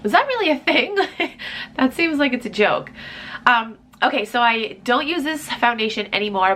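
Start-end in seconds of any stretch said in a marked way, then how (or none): 0.0-2.9 surprised. Real, not acted. Disbelief at an old product label.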